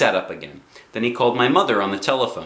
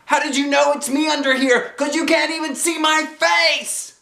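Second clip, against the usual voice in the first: put-on high, bouncy kid voice; chirpy child voice, pitched up; little girl Junie B. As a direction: play a bossy six-year-old.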